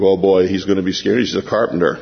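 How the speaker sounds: lightly voiced disciples sneering; smug fishermen. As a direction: talk down about the carpenter. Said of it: "they probably think".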